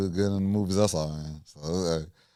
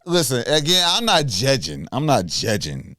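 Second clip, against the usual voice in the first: high, insistent judgy denial; defensive, pitched-up judgy tone; 5 semitones higher, 3 dB louder than usual. Real, not acted. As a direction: deny judging while sounding thoroughly judgy. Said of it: "That sound like judgy voice".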